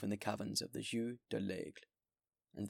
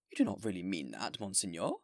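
a touch louder, anxious mayor's protest; mayor exclaiming; 4 dB louder than usual. Acted. Mayor urging the bishop not to go, exclaiming. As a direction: voice the worried mayor pleading. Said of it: "exclaimed the mayor".

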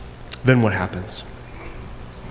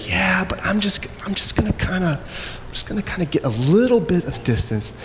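higher, hushed, half-whispered excuse; sheepish hedging; 7 semitones higher, 4 dB quieter than usual. Retold or imitated. Preacher voices believer edging away from Jesus, sheepish hedging. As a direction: wheedle it softly in a raised, put-on voice.

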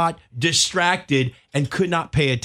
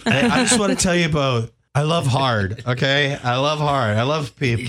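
mock drunk. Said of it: "pretend right now you're drunk".

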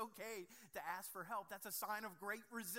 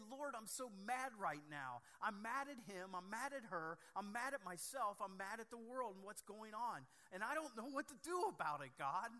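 louder, heated venting to God, rising to the end; angry prayer; 4 semitones higher, 4 dB louder than usual. Pretend. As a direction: pour out frustration in a prayer that builds. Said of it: "express that in angry prayer".

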